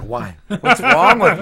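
high, loud, laughing cry of despair; mock despair. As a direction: wail at yourself in mock despair. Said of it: "it's like".

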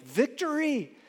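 lightly voiced devil crowing over a win; preacher voicing Satan, slow and gloating. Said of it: "And Satan is like".

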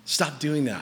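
low, measured counsel; wise warning. Acted. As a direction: speak a grave warning into someone's life. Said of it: "with wisdom and the gift of prophecy speaking".

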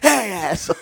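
high, laughing jokey jab; laughing mock insult. Co-host jokes what he told Durant, laughing. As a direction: toss it off through a laugh. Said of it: "co-host jokes about reply to Durant".

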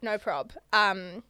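talking between sips of wine; while sipping a drink. Real, not acted. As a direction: sip and speak. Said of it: "if you can hear me sipping".

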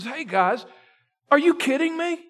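David calling out the hiding soldiers, rising from plain to loud outrage; indignant challenge. Acted. David confronting the frightened soldiers.

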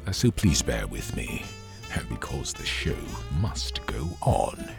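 losing voice, coming down with a cold; hoarse, fading voice from a cold; voice giving out. Real, not acted. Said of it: "if it sounds like I'm losing my voice".

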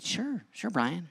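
cheery boss. Retold or imitated.

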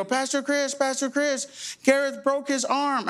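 put-on high, slow, urgent kid voices; kids calling out. Kids running up to the pastor, high anxious calling. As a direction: call for the pastor like panicked kids.

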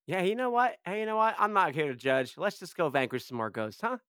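hammed-up tough guy voice; mocking impression. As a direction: parrot his tough-guy act back. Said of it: "You keep saying that, like".

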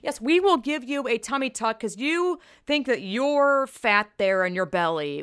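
fake-cheerful enabling voice; mock cheerleader. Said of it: "going up to anorexics and being like".

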